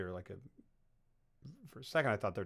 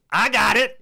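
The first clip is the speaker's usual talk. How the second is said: much higher and much louder, a strained grin; weird grinning reply; 11 semitones higher, 14 dB louder, slower than usual. Retold or imitated. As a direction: answer with an odd forced smile in the voice. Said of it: "the weirdest smile in the world".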